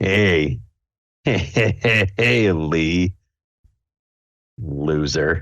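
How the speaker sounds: very slow, drawn-out, sneering taunt. Voicing a rival bear who sneers at a player: sneering taunt as Lotso. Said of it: "turns and looks at you and kinda sneers".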